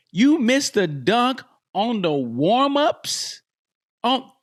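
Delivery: slow, drawn-out disbelieving question; stunned and slow; incredulous. Real, not acted. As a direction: spell it out in disbelief. Incredulous repeat of news.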